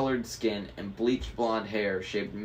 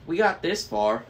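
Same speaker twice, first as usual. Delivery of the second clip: higher, louder pep talk; rally your friends with eager encouragement; pitched-up, punchy reassurance; chiming in; 8 semitones higher, 6 dB louder than usual. A narrator's reading. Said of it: "he chimed in".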